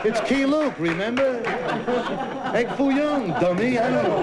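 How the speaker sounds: high put-on yelling voice; mock restaurant owner yell. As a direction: shout at the moviegoer, high. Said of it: "The Chinese restaurant owners yell".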